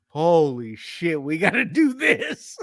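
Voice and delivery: slow awe climbing into eagerness; excited realization. Retold or imitated. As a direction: act out a mock-amazed discovery, building upward. Retells own eager reaction to search.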